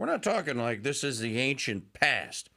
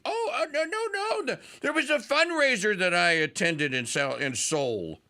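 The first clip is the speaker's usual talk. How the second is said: squeaky, self-pitying "oh no" excuses, pitched way up on each "oh no"; mock whiny complaint. Host mocking a candidate's excuses, in a whiny mock voice. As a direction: whine like a spoiled jet-setter. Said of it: "you could say".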